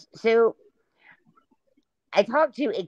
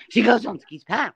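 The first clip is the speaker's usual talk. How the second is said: mock gasp.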